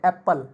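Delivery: first syllable of एप्पल stressed. Shown as a demonstration. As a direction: punch the ए in एप्पल, relax on पल. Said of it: "ऊंची आवाज़ में बोल रहे हैं".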